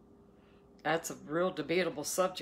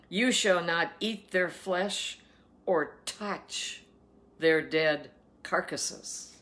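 slow, emphatic Bible reading; scripture reading; slower than usual. Acted. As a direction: proclaim the food laws, weighting each word. Reads scripture aloud.

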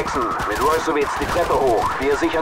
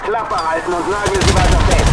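angry order; 2 semitones higher, 4 dB louder than usual. Acted. Officer snaps at soldier.

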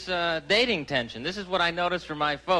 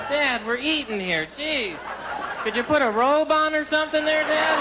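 mock exasperated son; 7 semitones higher than usual. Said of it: "I'm going".

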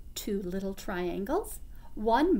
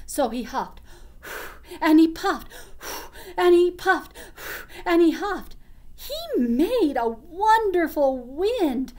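put-on reading to children; 2 semitones higher than usual. A narrator's reading. Reads story to children.

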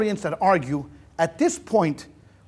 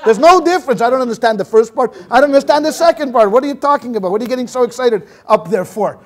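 simple fellow's retort; 2 semitones higher, 6 dB louder than usual. Retold or imitated. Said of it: "So the guy says".

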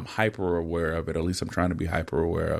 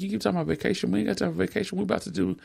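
high, brushing-off voice, raised pitch all through; mock dismissive self; 12 semitones higher, much faster than usual. Husband to wife about vacation, high mock dismissal. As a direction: mimic your younger self waving it off. Retelling his own dismissive reply.

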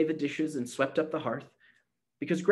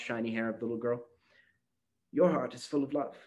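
put-on tender old granny; 3 dB quieter than usual. A narrator's reading. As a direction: comfort her gently.

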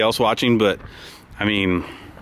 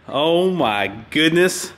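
awed; 3 semitones higher, slower than usual. Real, not acted. Admiring the car slowly.

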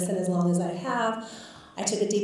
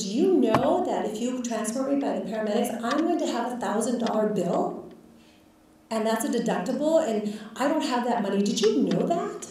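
mildly heated challenge, building to a higher final question; retold indignation; 3 semitones higher than usual. Patient confronting doctor over the bill, indignant. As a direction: imitate an indignant patient, emphatic.

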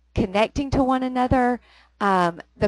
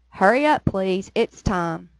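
Cockney accent attempt. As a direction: say "Hurry up, please. It's time." with a Cockney twang, rising on "up". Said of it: "I'll try it".

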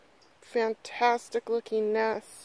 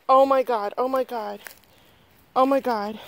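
retold excitement; 6 dB louder than usual. Retelling own reaction to the news.

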